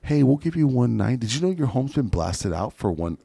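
high, smug mock jerk voice on the phone. Investor's son sweet-talking Barbara, smug mock jerk. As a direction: play the slimy buyer calling the old lady. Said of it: "like, a complete asshole".

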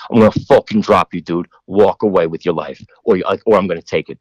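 lightly done Boston tough guy; Boston accent. Retold or imitated. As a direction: threaten him with a touch of Boston accent. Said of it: "that was a really good Boston accent".

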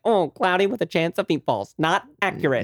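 lightly voiced nerdy kid; a hint of a know-it-all child voice; baby Harley voice. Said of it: "I did a Harley voice".

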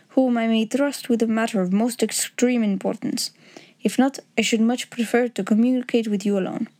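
lightly voiced formal Bohemian count; a hint of a Bohemian nobleman's accent. Count laying terms before Holmes, lightly accented and formal.

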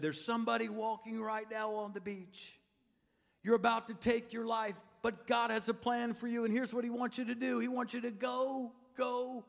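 a touch of prophetic calling-out, slowing at the end; lightly voiced evangelist. Evangelist addressing a man on the beach, lightly voiced proclamation. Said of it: "there was an evangelist that said".

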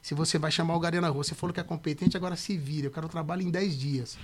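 a mildly imitated impatient boss; client's stern manner. Client cutting off producer's excuses, mildly stern. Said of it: "ele falava desse jeito".

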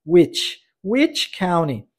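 Which county said very slowly and clearly; slow model. Shown as a demonstration. Teacher modelling for students, Which county very slowly. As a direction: drag out Which county for learners. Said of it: "a palavrinha which".

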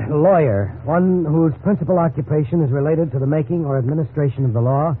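reads the encyclopedia entry aloud, deliberate; a careful read-aloud from a book. Acted. Employee reads to his boss, careful reading aloud. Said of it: "Aloud, please".

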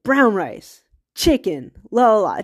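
lightly acted rude customer barking orders; half-hearted impression of a rude customer talking down; curt barking order. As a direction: bark it at the server, bossy and short. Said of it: "this guy was just kinda like".

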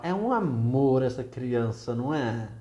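mock-sweet irony, stressed and drawn out; ironic. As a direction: gush slowly through your annoyance. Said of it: "você usa da ironia".

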